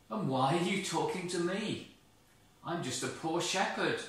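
a lightly voiced startled shepherd; voice of Moses. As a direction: ask it with wonder. Moses answers the voice.

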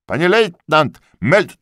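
high, loud servile report; eager corporal. A narrator's reading. Corporal reporting to the lieutenant, high and eager.

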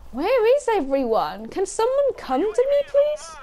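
high pleading call. Real, not acted. Begging teammates for help.

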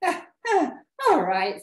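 high, loud storybook chuckle; bursting with laughter. Acted. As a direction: laugh into the words as an amused monster. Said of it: "bursting with laughter".

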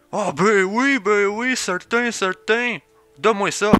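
high, loud, over-eager character voice; Eric, eager sidekick. Acted. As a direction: jump at the chance to commentate. Plays Eric eagerly grabbing the microphone.

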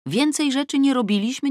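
usual speaking voice

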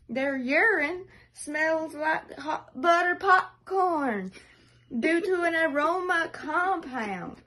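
put-on nature documentary narration; documentary narrator voice. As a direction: narrate like a wildlife film, in a vague accent. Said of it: "I don't know what accent I'm doing".

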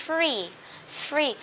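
FREE as one syllable with a clear fr blend; correct, classy FREE. Shown as a demonstration. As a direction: model FREE with f gliding straight into r. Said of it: "Đọc sao nghe cho sang chảnh nha". (đọc mẫu FREE chuẩn, sang chảnh)

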